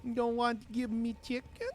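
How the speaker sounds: high cooing voice to a pet; cutesy baby talk. Pretend. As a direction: sweet-talk it like a baby animal. Cooing at the game creature.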